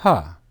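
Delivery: Ha said alone as a short open syllable; syllable sounded out. Shown as a demonstration. Teacher building the word for the class, one syllable sounded out. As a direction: clip Ha off as one clean syllable. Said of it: "How is it pronounced?".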